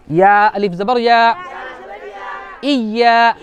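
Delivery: spelling drill. Shown as a demonstration. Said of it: "उसके बाद देखो".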